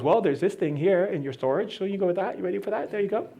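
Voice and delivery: soft, obliging shadow; the shadow's voice. Acted. The shadow handing over storage, soft and obliging. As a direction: hand it over quietly. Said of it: "And the shadow goes".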